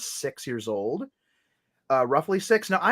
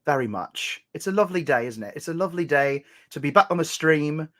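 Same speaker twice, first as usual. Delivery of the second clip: lightly put-on British accent. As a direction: play at British politeness, taking your time. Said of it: "we can be British or Australian".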